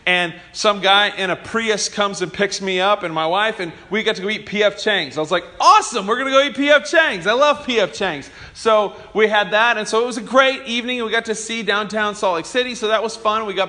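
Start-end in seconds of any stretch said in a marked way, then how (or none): 5.6-8.3 excited. Retold or imitated. Getting free Uber to dinner.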